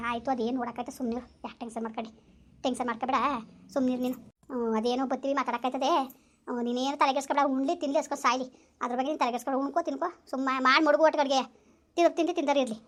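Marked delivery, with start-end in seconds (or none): 0.1-10.5 calm her down softly; soothing. Real, not acted. Aunt calming her upset niece over the phone, softly reassuring.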